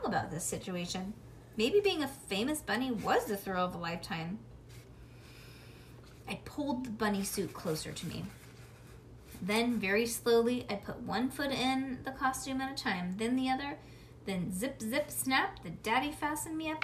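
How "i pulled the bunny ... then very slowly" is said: usual speaking voice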